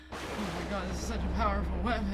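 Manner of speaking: fast, breathless mock panic; mocking dramatic TikToker. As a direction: gush it out in a hurry, mocking. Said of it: "you're just like".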